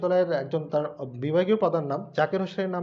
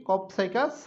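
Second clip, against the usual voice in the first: কপসাইকাস, then a pause, then সেলুরিয়াস; split into parts. Shown as a demonstration. Teacher breaking the magpie robin name apart for students, with a pause. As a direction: say each part apart. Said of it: "তুমি এভাবে একসাথে বলতে পারো".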